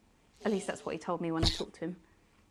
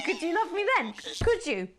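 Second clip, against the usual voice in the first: giddy desperate plea; 8 semitones higher than usual. Acted. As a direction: plead with a nervous laugh.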